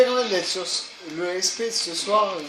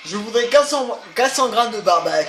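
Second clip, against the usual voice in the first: bad acting; 3 semitones higher, 5 dB louder than usual. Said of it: "je joue mal".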